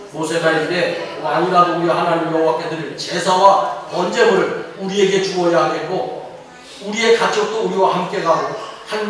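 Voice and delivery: measured, even scripture reading. A narrator's reading. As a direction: read the verse out steadily, drawing out the endings. (차분히 성경을 봉독하듯)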